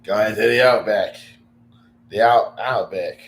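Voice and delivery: Australian accent attempt. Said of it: "I, I can't do it".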